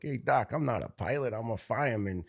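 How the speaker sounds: a touch of gruff Brooklyn pushback; tough Brooklyn accent. Retold or imitated. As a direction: retell it as a tough Brooklyn guy. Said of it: "tough Brooklyn accent".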